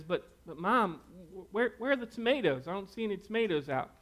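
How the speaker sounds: put-on a boy pestering his mom, fast and keen; excited kid. Son asks mom about sauce, eager and quick.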